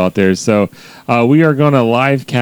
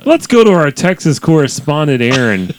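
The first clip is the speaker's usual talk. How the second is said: raised anchor delivery, lightly hammed up; mock news anchor; 3 semitones higher than usual. Cohost throwing to Texas correspondent, mock anchor. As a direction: hand off like a TV anchor.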